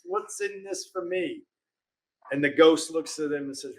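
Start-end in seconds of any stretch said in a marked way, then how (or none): 0.0-1.4 softer and slower, almost under the breath; quiet selfish question. Retold or imitated. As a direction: murmur it like a sly aside. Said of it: "And he quietly does this".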